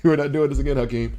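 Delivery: loud exasperated scolding, not again; mock scolding. Scolding a chatter who took Luka over Wemby, loud and fed up. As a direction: shut the argument down hard.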